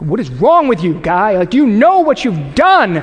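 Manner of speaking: a hammed-up angry rant at a buddy; mock freak out. Friend ruined the Polaroid, mock furious outburst. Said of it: "And you freak out".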